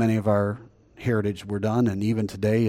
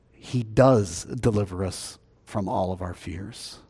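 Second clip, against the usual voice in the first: hushed preaching; 5 semitones lower, 6 dB quieter, slower than usual. Acted. Closing hushed statement.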